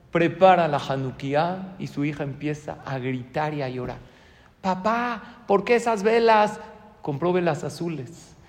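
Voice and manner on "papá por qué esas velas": put-on high whiny child's voice; a small daughter wailing at her father; crying little girl. Little girl crying to her papa about the candles.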